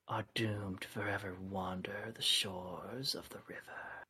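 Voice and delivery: hissed, soft whispered creature voice; feral snarling. Acted. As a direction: whisper it like a cold beast. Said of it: "She sort of smirks".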